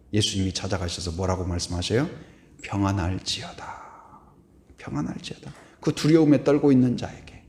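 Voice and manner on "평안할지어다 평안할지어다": soft, hushed blessing, fading to a whisper; calm the frightened ones; gentle blessing. Retold or imitated. Jesus speaking softly to frightened disciples, tender blessing.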